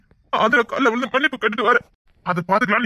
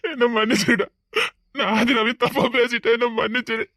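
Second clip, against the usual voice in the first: crying plea. Acted. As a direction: voice breaking into a sob. Brother begging forgiveness. (அழுகையுடன் மன்னிப்பு கேட்பது)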